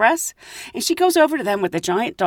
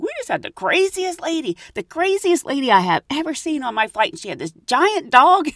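flustered; 5 semitones higher than usual. Retold or imitated. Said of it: "she looked flustered".

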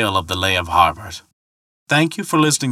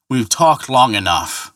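slow, a touch of anger; angry; 3 semitones higher than usual. Acted. Thor mildly angry at the ferryman's mockery. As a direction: clip off the talk in mild anger. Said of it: "said Thor angrily".

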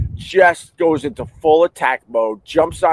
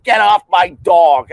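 louder mock shout of the owner; retold yell; 4 semitones higher, 5 dB louder than usual. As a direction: snap the order angrily. Retold owner yelling again.

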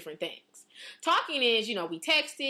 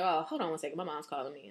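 fake excuse; 5 semitones lower, 6 dB quieter than usual. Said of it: "I'd be like".

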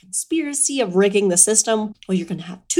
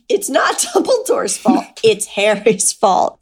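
mock Snape; 4 dB louder than usual. Snape blaming Harry, a lightly voiced petty sneer.

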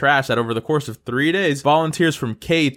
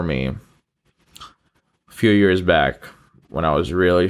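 low, unhurried, pausing sincerity; sincere, lower-pitched thankfulness with long pauses; heartfelt gratitude reflection; 6 semitones lower than usual. Real, not acted. Heartfelt gratitude after breath.

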